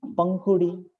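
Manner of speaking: पंखुड़ी with a clear ng before ख; anusvara sounded. Shown as a demonstration. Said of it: "उच्चारण हो रहा है अनुसार का". (अनुस्वार पर ज़ोर देकर पंखुड़ी)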